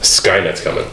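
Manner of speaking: slow, hushed doom; ominous whisper. Pretend. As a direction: whisper it like a prophecy. Ominous joke about AI takeover.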